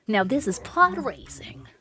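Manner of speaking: slow, lightly voiced young Jedi; a loose, hammed-up pod racer quote; awkward Anakin impression. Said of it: "awkward Anakin impression there".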